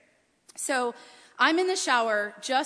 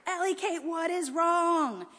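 calling out; 6 semitones higher, slower than usual. Retold or imitated. Mom calling down worried.

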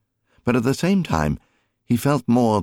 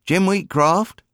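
high, slow, louder call; calling after; 14 semitones higher, 4 dB louder, slower than usual. A narrator's reading. Mary calling after her departing husband, drawn-out call. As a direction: call him back across the yard. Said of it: "she called after him".

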